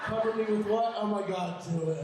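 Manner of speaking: high, mock-thrilled gasping; excited bread voice. Bread begging to be frosted, mock-excited voice. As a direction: start high, as if thrilled, then ease down.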